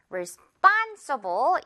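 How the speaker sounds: Responsible said very slowly, SPON stressed, rising at the end; re-SPON-si-ble, slow for learners; very slow teacher model of Responsible; slow stress drill. Shown as a demonstration. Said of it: "이 부분 주의하면서요".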